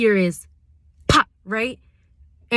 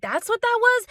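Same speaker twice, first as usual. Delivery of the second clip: stunned; 13 semitones higher than usual. Retold or imitated. Boyfriend's stunned reaction.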